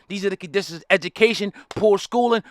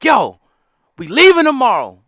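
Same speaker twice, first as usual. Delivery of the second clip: urgent escape plea; 6 dB louder than usual. Retold or imitated. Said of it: "Back to the plantation when it's like".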